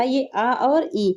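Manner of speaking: आ and ई drawn out slowly, one by one; slow vowel split. Shown as a demonstration. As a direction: pull each vowel apart, slow and clear. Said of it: "तो ये आ भी अलग हो गया और ई भी अलग हो गया". (धीरे-धीरे अलग करके बोलना)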